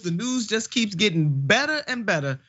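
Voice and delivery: mock good-news announcement; sarcastic. Real, not acted. Host introducing Social Security loopholes, very sarcastic. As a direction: say it with dry sarcasm. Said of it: "I'm being very sarcastic".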